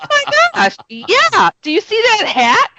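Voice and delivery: high, laughing mock-innocent tease; mock-innocent teasing, laughing; teasing through laughter. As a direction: giggle while spooking him. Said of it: "I'm totally toying with him".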